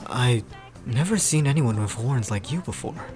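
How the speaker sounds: deep, measured character voice; deep-voiced Pierce. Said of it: "how deep the guy's voice is".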